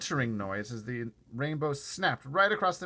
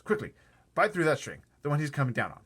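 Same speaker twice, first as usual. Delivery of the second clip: louder, a bit higher urging; urgent call; 4 semitones higher, 5 dB louder than usual. Acted. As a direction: hurry him along. James urging the centipede.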